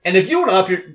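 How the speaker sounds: tripping over the words; botched fumbling delivery; stumbled line. Acted. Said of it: "you stumbled on the third fucking syllable".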